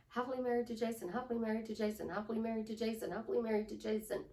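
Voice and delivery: quick, flowing repeated affirmation; feeling put in. Shown as a demonstration. Coach showing it is no longer robotic, quick and felt. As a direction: run it together fast, with some feeling. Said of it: "you are putting a feeling into it".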